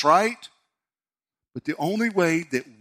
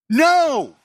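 much higher, louder forceful No!; emphatic no; 11 semitones higher, 9 dB louder than usual. Real, not acted. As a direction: shut the lie down hard. Preacher rejects deist idea.

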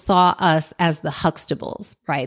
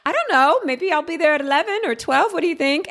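lightly acted proper speech, pitched up; well-spoken younger self; 8 semitones higher, faster than usual. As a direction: imitate yourself speaking properly, higher and a little quick. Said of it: "laugh at the way that I spoke".

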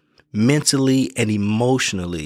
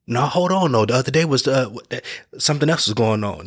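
defensive protest; 2 semitones higher than usual. Acted. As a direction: jump in to defend yourself, raised pitch. Defensive reply to the boundary.

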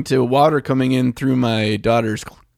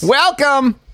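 much higher, drawn-out echo of the welcome; high mocking echo of Welcome; 4 dB louder than usual. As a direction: parrot the greeting up high. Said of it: "my best David Attenborough accent".

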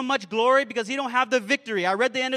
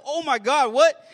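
acted-out disbelief, bursting louder on "what"; comic startled outburst, rising to a louder finish; mock shock; 3 semitones higher, 5 dB louder than usual. Client reacting to the therapist's plan, shocked.

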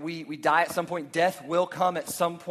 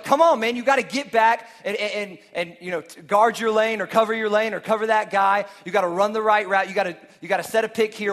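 mock teammate yell; 2 semitones higher, 4 dB louder than usual. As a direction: urge a teammate on, loud and pressing. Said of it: "you might yell at a teammate".

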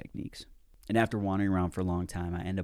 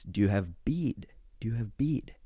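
gentle whisper; 3 semitones higher than usual. Retold or imitated. Old lady asking gently.

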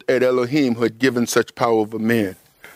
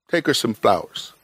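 gentle divine prompting; 4 semitones lower than usual. Retold or imitated. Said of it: "Father's trying to get you".

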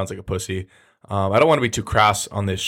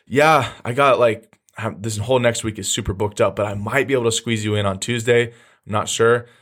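casual, in no hurry; unneedy nonchalance. Acted. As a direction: play it like you're booked up, noncommittal. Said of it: "notice those two different approaches".

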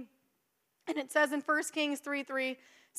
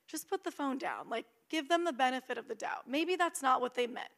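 soft, lowered, gently advising; calming inner voice; 7 dB quieter than usual. Acted. Inner voice to angry texter, soft and calming. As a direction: talk someone down quietly. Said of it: "you hear that voice that says".

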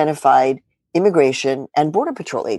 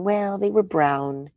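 dismissive shrug; 4 semitones higher, 6 dB quieter, slower than usual. Retold or imitated. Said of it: "And you're thinking".

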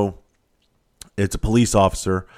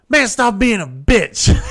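much higher, slow, laughing through the words; laughing mockery; 13 semitones higher, 6 dB louder, slower than usual. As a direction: tease him while cracking up. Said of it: "He goes".

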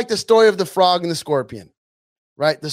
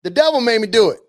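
pleading believer; 2 semitones higher than usual. Retold or imitated. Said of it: "You're gonna say".

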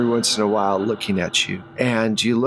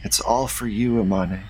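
Rose; 2 semitones lower than usual. Acted. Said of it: "And she goes".

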